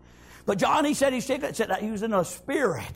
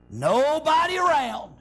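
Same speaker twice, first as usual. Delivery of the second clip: drawn out; 4 semitones higher, much slower than usual. Retold or imitated. Drawn-out preaching of scripture.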